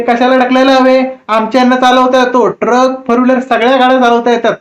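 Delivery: a touch of a proud boasting wife; boastful woman. Retold or imitated. Woman boasting about her husband.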